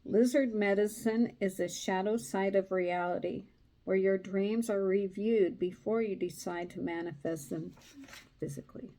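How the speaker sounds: steady storytelling read; story narration. A narrator's reading. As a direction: read the tale to a listener. Rereads card meaning.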